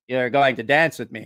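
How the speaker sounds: low deadpan command; flat monotone, no room to argue. Retold or imitated. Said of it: "He always talked like this. M-, monotone".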